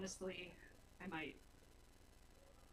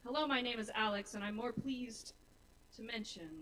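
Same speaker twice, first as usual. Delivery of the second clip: rhythmic recitation, each phrase easing down at the end; spoken-word poem. Acted. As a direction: introduce yourself in measured, deliberate verse. Recites own poem on stage.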